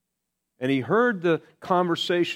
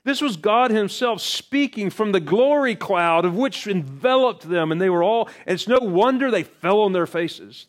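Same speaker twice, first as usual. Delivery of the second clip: higher and louder, awed; fervent preaching; 9 semitones higher, 6 dB louder than usual. Acted. Preacher describing God speaking from the cloud, fervent. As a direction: proclaim it with awe.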